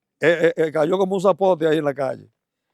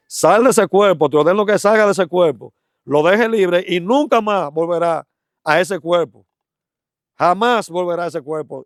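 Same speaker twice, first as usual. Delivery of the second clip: stern command; 4 semitones higher than usual. Retold or imitated. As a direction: order the spirit out with slow authority. Commanding the demon to leave.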